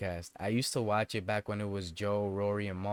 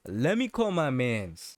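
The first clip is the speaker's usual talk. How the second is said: quoting Joe; 3 semitones higher than usual. Retold or imitated. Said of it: "He, he said, and I quote".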